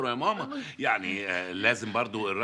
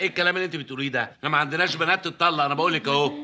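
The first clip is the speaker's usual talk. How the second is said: scolding father; 4 semitones higher, 6 dB louder, faster than usual. Acted. Father scolds daughter about divorce.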